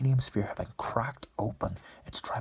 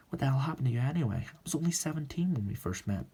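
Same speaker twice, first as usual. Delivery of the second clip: higher, louder, reproachful outburst; exasperated confrontation; 5 semitones higher, 3 dB louder than usual. Acted. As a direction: confront him with raised pitch. Woman confronts man in acted quarrel.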